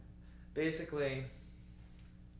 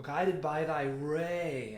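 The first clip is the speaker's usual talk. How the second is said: "guided by thy ray" slowly, swelling into a long "ray"; slow, growing recitation with "ray" drawn out; crescendo on ray; 4 dB louder, much slower than usual. Shown as a demonstration. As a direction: stretch the phrase and build volume toward "ray". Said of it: "the volume increases to a forte".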